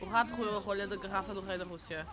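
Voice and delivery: "O rato roeu a rolha" rattled off quickly; Portuguese tongue twister. Shown as a demonstration. Streamer repeating the R exercise, fast tongue twister "O rato roeu". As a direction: race through "rato", "roeu", "rolha" with guttural r's, in Portuguese. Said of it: "tried to teach me how to roll my tongue".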